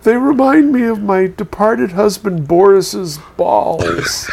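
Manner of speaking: slow, mournful punchline; a hint of a sobbing old woman, slow; mock-tearful Russian widow. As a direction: drag it out like a grieving widow. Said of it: "And she says".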